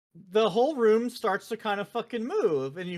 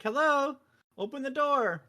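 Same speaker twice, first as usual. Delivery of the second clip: lightly voiced British dude, higher pitch; a hint of a higher-pitched British caller; 6 semitones higher than usual. British sphere calls through the motel door, lightly imitated. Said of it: "this British dude's voice".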